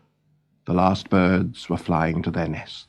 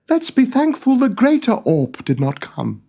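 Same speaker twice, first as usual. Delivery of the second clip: pitched up, kindly king's voice; a young king fretting over his birds; Noggin's raised voice; 14 semitones higher than usual. Acted. Noggin, the king, to his bird friend: raised, kindly voice.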